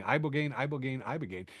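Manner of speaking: "ibogaine" with an EYE start, over and over; repeated mispronunciation. Retold or imitated. Host imitating the president's attempts, "ibogaine" as EYE-bo-gain. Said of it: "just kept saying".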